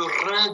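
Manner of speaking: R trilled as in Spanish; rolled Spanish R. Shown as a demonstration. Teacher coaching a student on sounds, rolled R. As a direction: roll the R on the tongue. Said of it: "qui roule".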